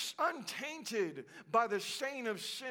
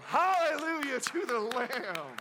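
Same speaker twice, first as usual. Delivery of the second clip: loud hallelujah; praise shout; 3 dB louder than usual. Real, not acted. Preacher shouting praise after the climax. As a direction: lift the praise up.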